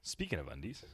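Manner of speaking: breathy whispered segue; whispering. Real, not acted. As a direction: whisper it like a secret.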